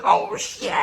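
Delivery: whispered "oh, shit" under the breath; hushed exclaim. Retold or imitated. Geeking out beside his unaware wife, hushed whisper. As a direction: keep it down so the wife won't notice. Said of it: "So I'm like".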